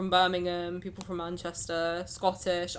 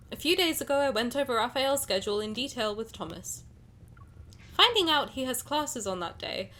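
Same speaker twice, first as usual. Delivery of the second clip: story narration; 3 semitones higher than usual. A narrator's reading. Reads game story aloud.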